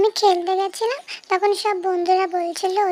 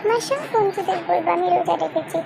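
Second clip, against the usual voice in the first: put-on excited child cheer; 4 semitones higher than usual. Daughter cheering to her father about fasting, high and excited. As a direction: cheer like a little girl who just got her wish.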